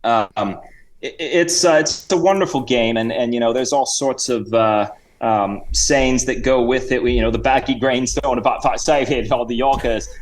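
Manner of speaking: rambling mock Cockney-Australian accent; Sir Reginald. Guest rattles off cricket sayings in fake Cockney-Australian accent. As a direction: waffle on in loose Cockney-Aussie. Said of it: "bit of a Cockney accent and Australian".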